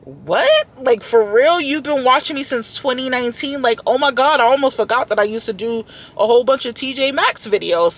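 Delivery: squealing what, for real, oh my God; shocked disbelief. Retold or imitated. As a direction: replay the moment you couldn't believe it. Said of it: "And I was like".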